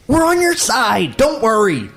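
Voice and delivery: high, squawking comic voice; Gilbert Gottfried. Acted. Protester reassuring the others, high comic squawk. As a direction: yell it in a high put-on comedian voice. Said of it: "Gilbert Godfrey is apparently playing the role".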